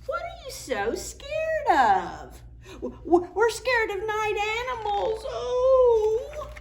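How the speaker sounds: high, whimpering stammer; scared stammer. Acted. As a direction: stutter it out crying.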